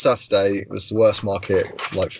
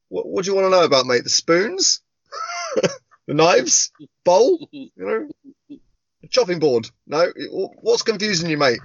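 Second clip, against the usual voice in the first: mock patient; 8 semitones higher than usual. Mocking reply to nosy customer.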